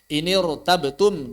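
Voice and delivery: "Inirtabtum" slowly, with a dark r; thick r. Shown as a demonstration. Teacher lists examples of thick ra, heavy r.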